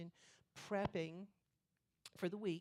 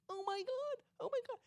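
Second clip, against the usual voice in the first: pained moaning; 4 dB louder than usual. Retold or imitated. Stomach pain after cream cheese.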